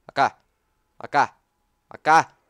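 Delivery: loud calls over here; calling out. Real, not acted. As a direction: call the zombie over. (llamando a gritos)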